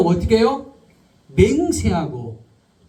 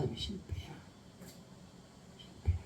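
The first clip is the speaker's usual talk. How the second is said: fading away to almost nothing; very soft, as if giving up; defeated murmur; 23 dB quieter than usual. Acted. Preacher voices Peter admitting failure, barely audible.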